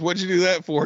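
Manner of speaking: high-pitched mock disbelief; acted incredulous question. Mexican passenger asking the Russian why, incredulous. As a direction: shoot the pitch up, playing baffled.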